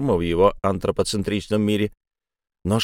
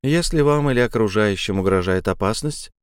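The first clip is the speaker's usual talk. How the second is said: mechanical recorded lady; like an automated hotline message; phone menu voice. Acted. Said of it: "механическая леди".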